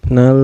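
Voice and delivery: "nal" with the L held on; wrongly held L. Shown as a demonstration. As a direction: linger on the final L of "nal". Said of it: "ditahan juga, gak boleh". ("nal" dengan L ditahan)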